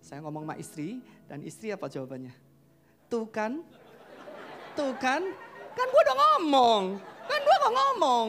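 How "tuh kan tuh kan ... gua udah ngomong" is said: teasing wife. Retold or imitated. Wife teasing stressed husband.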